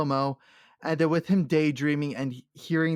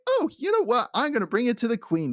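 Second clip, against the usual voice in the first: mock Galadriel; 7 semitones higher, faster than usual. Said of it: "is like".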